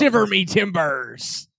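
slow, hammed-up pirate voice; pirate catchphrase delivery, slow. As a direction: play a pirate, drawing the words out. Pirate catchphrase joke, slowed down.

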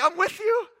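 lightly voiced God saying he's near; God gently assuring us; God reassuring. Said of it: "God's like".

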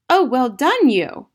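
high, loud, slow congratulation; jubilant cry. A narrator's reading. Matilda congratulating Miss Honey, jubilant loud cry. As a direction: cheer like an overjoyed child. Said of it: "Matilda cried".

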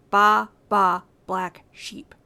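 "Baa, baa, black sheep" with a loud first BAA, then fading; trochaic stress. Shown as a demonstration. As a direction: punch the first baa and let "black sheep" drop away. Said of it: "that ease in saying it".

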